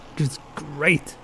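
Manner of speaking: slow, quiet, unenthused praise; unintentionally sarcastic, softly drawn out; sarcastic-sounding. Real, not acted. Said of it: "it sounds a bit sarcastic".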